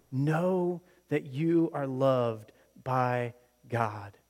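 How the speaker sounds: slow, voiced and earnest; slow sincere emphasis. Preacher repeating the line aloud, slow and sincere. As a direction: say it aloud, deliberately.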